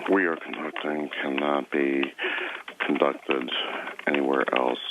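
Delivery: low, slow, solemn repeat; solemn echo. Pretend. Interviewer solemnly echoes answer.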